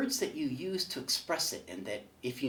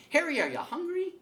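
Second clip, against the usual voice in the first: God welcoming Harry; 4 dB louder than usual. Acted. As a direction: greet him like a jolly host in heaven, pitched way up. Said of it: "And then he says".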